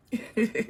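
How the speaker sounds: small, soft chuckle; weak laugh. A narrator's reading. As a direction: laugh feebly under the breath. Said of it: "Kiwi laughed weakly".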